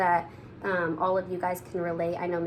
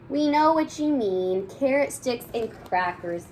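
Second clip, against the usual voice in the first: mild yell; 4 semitones higher, 3 dB louder than usual. Acted. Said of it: "we yell".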